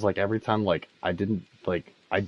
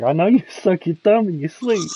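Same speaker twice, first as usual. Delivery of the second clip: loud mock confiding; 10 semitones higher, 6 dB louder than usual. The speaker imitates Christian loudly sharing a secret, loud mock voice. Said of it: "like, all loud as shit".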